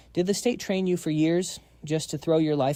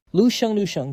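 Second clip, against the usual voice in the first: higher, louder repeated cry of his name; desperate shout; 6 semitones higher, 6 dB louder than usual. Acted. Wife being removed by security, desperate shout. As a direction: yell after him as you're dragged away.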